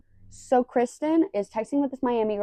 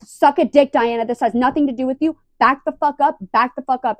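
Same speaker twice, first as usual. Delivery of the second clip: high, loud mock tirade; going nuts; 5 semitones higher, 6 dB louder than usual. Vlogger acting out Kristen going nuts on Diana, angry outburst. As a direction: imitate a furious employee telling off the manager. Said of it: "Kristen goes nuts on Diana".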